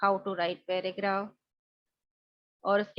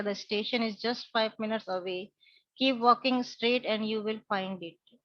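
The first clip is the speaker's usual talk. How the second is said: slow polite reply; much slower than usual. Acted. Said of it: "अब इसने reply किया".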